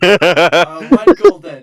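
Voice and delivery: high, loud haggling character voice; Morgan impression. Shown as a demonstration. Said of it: "how's your Morgan impression? Let me hear".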